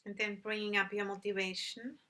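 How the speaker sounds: calm, unhurried meditation guidance with long pauses; measured instructions in short, spaced phrases; guided meditation. Real, not acted. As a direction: guide listeners gently into stillness, leaving long silences.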